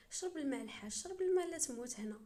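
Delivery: irritated jab that climbs as it repeats; annoyed. Acted. Visitor telling the laughing old man to drink, annoyed. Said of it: "بقيت مفقوسه وانا نقول ليه".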